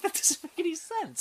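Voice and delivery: high laughing repeat; laughing disbelief. Real, not acted.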